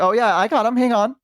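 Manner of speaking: high, lightly imitated mother's reply; reassuring mom. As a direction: answer a small child as mom. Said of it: "she'd be like".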